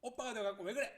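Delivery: scolding mother. Acted. Mother telling off the older brother, scolding. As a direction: scold sharply at high volume. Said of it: "엄마는 혼을 냅니다".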